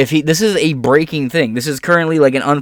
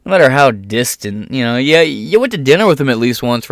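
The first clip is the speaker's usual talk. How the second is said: ordinary talk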